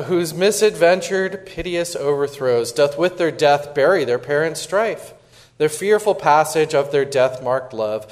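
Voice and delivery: measured, dramatic reading of verse; reading the prologue aloud. Acted. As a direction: read it like a stage prologue.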